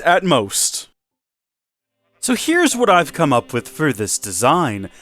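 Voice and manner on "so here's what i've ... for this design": lightly put-on home makeover host; a touch of TV host polish; HGTV presenter voice. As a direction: present it like a TV renovation show. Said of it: "It's my H G T V voice".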